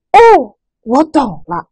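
哦 falling, bright understanding; an aha, it clicks; sudden realization. Shown as a demonstration. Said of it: "感叹的语气". (恍然大悟的赞叹)

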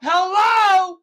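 high, loud monster hello. Acted. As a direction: shout it like a muppet. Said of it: "crazy monster".

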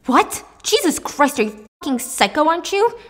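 loud, high outraged yelling; Jay shouting at David for nearly hitting him. Acted. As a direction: shout at the crazy driver.

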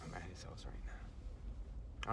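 slow hushed whisper. Real, not acted. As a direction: whisper so nobody hears. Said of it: "I know I'm whispering".

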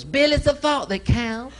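high slow sweet mother; prim mom voice. Retold or imitated. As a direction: play mom soothing. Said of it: "Mom goes".

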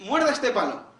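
high, slow acted command; hammed-up doctor ordering a patient; film doctor's order. Doctor about to cut out a bullet, high acted order.

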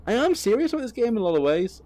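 high, loud protestation; mock earnest. Real, not acted. Streamer apologizing to truck sim fans, hammed-up. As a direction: overplay the sincerity.

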